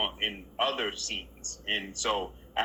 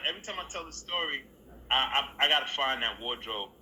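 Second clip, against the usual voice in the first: ordinary delivery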